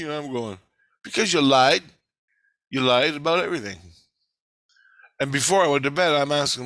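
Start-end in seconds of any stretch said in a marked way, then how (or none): 1.0-3.8 angry retort. Retold or imitated. Angry answer in a retold argument.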